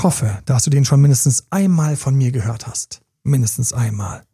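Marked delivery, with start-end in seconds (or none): none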